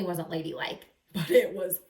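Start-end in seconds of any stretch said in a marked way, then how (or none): 1.1-1.8 louder, higher gleeful cry; thrilled. Acted. Amelia after the crash, a loud high gleeful cry. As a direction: shout it out with delight.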